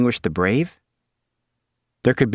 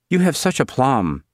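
put-on demure girl voice; 5 semitones higher than usual. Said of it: "Suzanne demurred".

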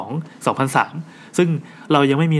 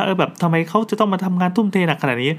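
higher, whiny retold grumble; mock complaining wife; 6 semitones higher than usual. Wife grumbling about her husband's overwork, in a higher whiny moan. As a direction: put on a wife's exasperated moan. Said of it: "บ่นว่า".

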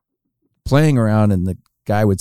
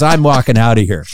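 mildly fed-up outburst, louder; retold frustration; 2 semitones higher, 5 dB louder than usual. Caddy quits on Charles Barkley, acted frustration. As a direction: act out a caddy who has had enough, louder. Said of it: "this guy's getting really frustrated".

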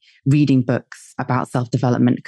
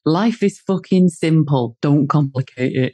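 put-on slow, deliberate northern English accent; slower than usual. Husband sharing his philosophy, slow northern English accent. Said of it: "That's a northern accent".

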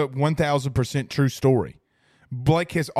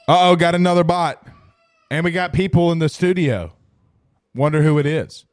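loud put-on alarm; loud mock alarm; 7 dB louder than usual. Streamer spotting a bot in chat, loud mock alarm. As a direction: announce the bot loudly, playing it up.

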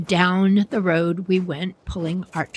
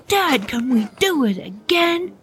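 pitched-up, keen little brother; eager child plea; 5 semitones higher than usual. Acted. Brother asking Dad for another run, high and eager. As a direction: beg eagerly in a higher voice.

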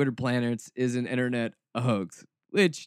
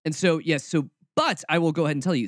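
usual speaking voice

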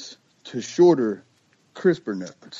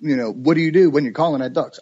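quick, raised questioning voice; curious questioner; 4 semitones higher, faster than usual. Retold or imitated. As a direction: fire off the questions eagerly. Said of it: "people always say".

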